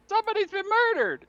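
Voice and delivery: high, loud acted cry of alarm; yelling alarm. Townspeople discovering the dead body, yelling in alarm. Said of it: "People are gonna yell".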